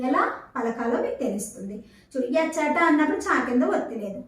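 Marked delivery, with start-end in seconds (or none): 2.4-2.8 ఎచ్చట with an easy, single చ; no pressure on the చ of ఎచ్చట; light single చ. Shown as a demonstration. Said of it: "తేలికగా పలకాలి".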